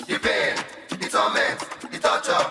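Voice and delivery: breathy whisper, dragged out; whispered lament. Acted. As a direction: whisper each word like suffering.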